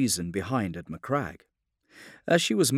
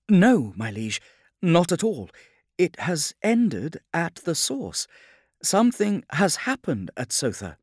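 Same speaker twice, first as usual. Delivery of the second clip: higher-pitched, anxious navigator; mildly fearful, pitch held high; afraid; 9 semitones higher, 6 dB louder than usual. A narrator's reading. Navigator telling her liege something happened at Sotha, afraid. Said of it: "Fianna sounded afraid".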